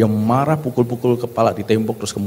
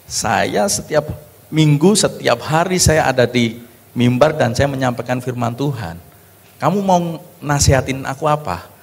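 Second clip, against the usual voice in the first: offended pastor snapping back; angry husband; 4 semitones higher than usual. Retold or imitated. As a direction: bristle at being lectured by your wife. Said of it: "Dia marah".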